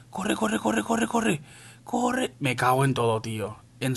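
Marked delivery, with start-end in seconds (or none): 0.1-2.3 urgencia al huir. Real, not acted. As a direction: squeak out a string of urgent pleas to run. Huye con la bandera. (agudo y apremiante, huyendo)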